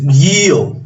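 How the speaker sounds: guió with the stress on the final O; drawn-out guió, weight landing on ó; stress on the open vowel. Shown as a demonstration. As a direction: say guió as gee-OH, hard g. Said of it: "El acento está en la".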